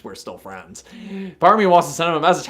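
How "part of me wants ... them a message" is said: fast and a bit louder, eager; rushed repeat. Real, not acted. Streamer getting excited about taunting the friend, rushed. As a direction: rattle it off, warming to the idea.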